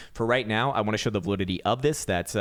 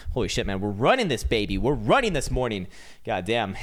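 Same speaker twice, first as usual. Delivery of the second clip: wired and buzzing; hyped up on coffee; too much caffeine. Real, not acted. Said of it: "Three cups of coffee today".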